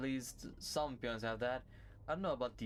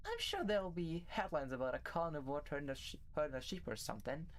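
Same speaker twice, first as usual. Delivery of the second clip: Oriole; 5 dB quieter than usual. Acted. Plays Oriole, gossiping in story.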